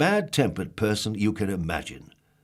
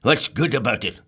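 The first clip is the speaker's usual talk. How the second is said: grumpy; 6 dB louder than usual. Acted. Grumpy grumbling at Happy.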